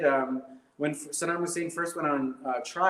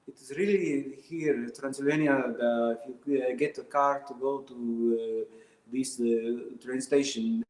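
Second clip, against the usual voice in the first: put-on a light Transylvanian accent, close to his own voice; a hint of a Transylvanian accent while explaining; a mild Transylvanian accent, not the Hollywood Dracula. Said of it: "Transylvanian, wow, okay".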